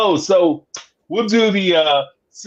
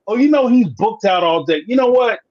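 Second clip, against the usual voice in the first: voicing the assistant; 6 semitones higher, 4 dB louder than usual. Assistant voiced in retold call.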